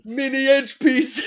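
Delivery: slow, high, giggling; laughing. Real, not acted. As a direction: say it through laughter. Laughing at the phrase.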